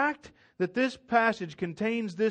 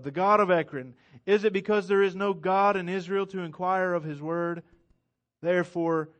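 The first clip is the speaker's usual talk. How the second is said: preaching scripture; 2 semitones lower than usual. Acted. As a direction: proclaim it like a prophet. Reads Elijah's prophecy.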